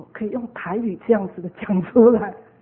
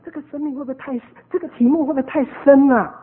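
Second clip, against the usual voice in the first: imitating a doubtful host, higher pitch; retold question rising in concern, louder at the end; worried query; 3 semitones higher, 6 dB louder, faster than usual. Quoting host's worried question.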